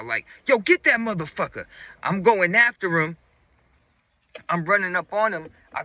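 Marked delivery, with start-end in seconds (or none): 0.5-1.7 high, hammed-up chasing cry; rally the crowd as a fake chaser; pretend pursuer. Thief pretending to chase his partner, high mock-urgent shout. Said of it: "I'm pretending like I'm chasing Ilya".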